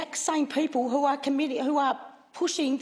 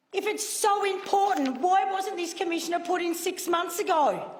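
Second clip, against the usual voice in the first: angry; 3 semitones higher than usual. Real, not acted. Senator berates government in chamber.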